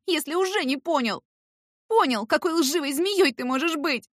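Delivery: high, loud, furious tirade; hateful outburst. A narrator's reading. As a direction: spit out years of hatred. Irka crying out her hatred.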